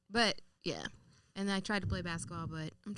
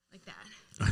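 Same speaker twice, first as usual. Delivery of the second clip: tennis grunt; 3 semitones lower, 7 dB louder than usual. Shown as a demonstration. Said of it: "What's your tennis grunt?".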